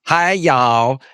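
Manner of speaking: lightly voiced Southern US accent with a drawled ending; a Brit giving Southern a go; attempted Southern accent. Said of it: "There you go".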